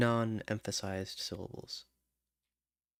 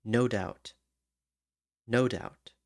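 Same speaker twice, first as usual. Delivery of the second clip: NO hit harder and longer than doubt; stress on NO; slower than usual. Shown as a demonstration. Songwriter testing where the lyric's beat falls, stressing NO. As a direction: lean on "no" in "no doubt" so it lands on the first syllable. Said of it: "the emphasis is".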